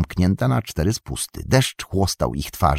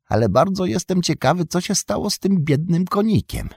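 a much higher, wistful Sam voice; Sam's voice; 12 semitones higher than usual. Acted. Sam to Pippin about the lost pony, high wistful voice. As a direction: Sam worrying aloud about the poor pony, pitched well up. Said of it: "odparł Sam".

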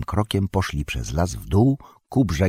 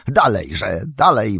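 eager rising call, louder on the second; 4 semitones higher, 4 dB louder, slower than usual. A narrator's reading. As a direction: urge them on, swinging an axe. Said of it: "wołał, wymachując toporkiem".

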